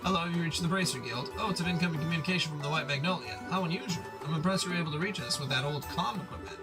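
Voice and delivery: put-on bubbly Valley Girl accent. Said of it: "Valley Girl accent".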